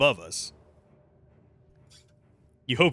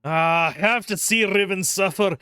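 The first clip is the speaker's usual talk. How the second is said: theatrical Scottish recital; anguished warrior with a Scottish accent. Acted. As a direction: declaim it in a strained Scottish brogue. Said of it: "Scottish accent".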